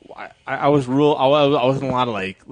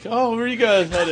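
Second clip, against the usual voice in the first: imitating gas station clerk; 11 semitones higher than usual. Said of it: "And they're like".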